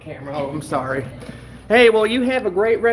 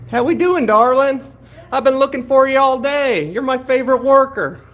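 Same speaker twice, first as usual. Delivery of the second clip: put-on higher, sugary old-lady hello; doting granny greeting; 6 semitones higher than usual. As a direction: coo at the worker like a grandma. Greeting worker in granny persona.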